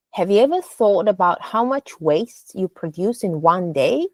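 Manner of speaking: engaging audience question, voice rising on "day"; rising question tune. Shown as a demonstration. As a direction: let DAY lift at the end. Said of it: "your voice should rise slightly".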